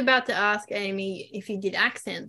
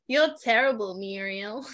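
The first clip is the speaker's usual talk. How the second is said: Australian accent. Shown as a demonstration. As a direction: model the Australian movie line. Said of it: "wait, say it again".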